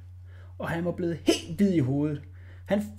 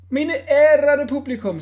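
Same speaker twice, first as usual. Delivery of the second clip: higher, slow grand address; ringmaster address; 9 semitones higher, 8 dB louder, slower than usual. A narrator's reading. Director speaking to the audience, grand. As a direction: proclaim it to the tent.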